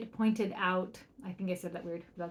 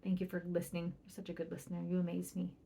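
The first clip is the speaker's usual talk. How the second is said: soft, tender praise, much softer; warm praise; 3 semitones lower, 6 dB quieter than usual. Shown as a demonstration. Parent praises child for going to do school, soft and tender. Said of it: "And you say".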